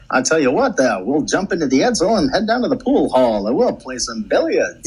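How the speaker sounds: lightly voiced 1940s radio man; a hint of an old newsreel; old-timey voice. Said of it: "Old-timey voice".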